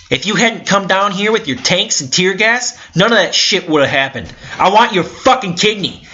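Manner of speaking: high, loud, raging at the cop; furious shouting. Retold or imitated. Protester raging at the police chief, high furious yelling. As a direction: scream it in his face, out of control.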